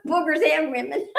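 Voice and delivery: giggling through the words; can't hold back the laugh. Real, not acted. Laughing at her own joke.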